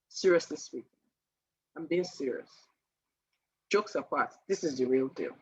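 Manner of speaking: low, grave and earnest; grave serious tone. Shown as a demonstration. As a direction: sound dead serious, voice dropped low. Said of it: "like grave tone, serious tone".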